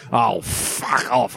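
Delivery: slow, drawn-out spiteful fuck off, mildly voiced; venomous fuck off. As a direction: nan putting real venom into it, stretched and slow. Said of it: "she put some real venom behind it".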